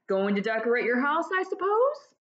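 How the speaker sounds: jovial friend, rising high on the question; a lightly voiced joking college pal; playful ribbing, ends in a high lilt; teasing old friend. Family friend teasing about wallpaper.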